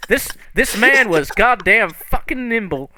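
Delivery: acted furious protest; outraged rant. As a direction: stretch out the outrage word by word. Character rants about long wait.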